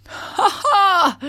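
loud high ha ha; laughing. Acted. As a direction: burst out laughing. Frog laughs.

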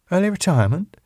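high rising disbelieving "Early retirement?"; surprised question. Acted. Sally incredulous at the news.

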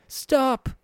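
a sharp, very high cry; moaning plea. Acted. Tortured man crying out to his captor, high pained plea. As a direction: cry out in pain and fear. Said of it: "the man moaned".

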